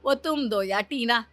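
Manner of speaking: loud, delighted exclaiming; joyful. Acted. Mother-in-law rejoicing over the coming grandson, joyful.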